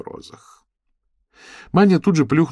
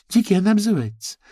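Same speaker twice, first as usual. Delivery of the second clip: whiny tattling; 14 semitones higher, 3 dB louder than usual. Acted. Complaining to the major.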